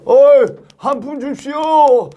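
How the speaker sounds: high, drawn-out plea for alms; begging. Acted. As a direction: call out like a street beggar. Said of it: "이게 구걸하니라고".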